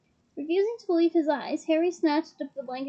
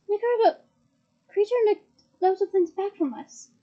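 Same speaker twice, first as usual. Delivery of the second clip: 1 excited Harry; 6 semitones higher, 3 dB louder than usual. A narrator's reading. Harry's eager quote, high and loud.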